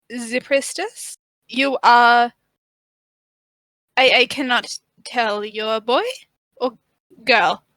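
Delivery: put-on halting, faintly German-accented priestess; lightly put-on German accent. Priestess puzzling over the stranger, shaky fake German accent. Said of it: "Why is she German?".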